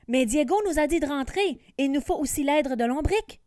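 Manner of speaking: quick, anxious pleading; worried. Acted. Johan warning Rory not to fight alone, worried and fast. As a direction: rush it out, fretting. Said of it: "s'inquiète Johan".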